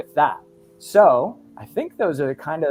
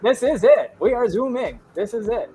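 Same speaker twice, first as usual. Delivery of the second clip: excited; 6 semitones higher, 4 dB louder than usual. Real, not acted. Excited about the Zoom launch.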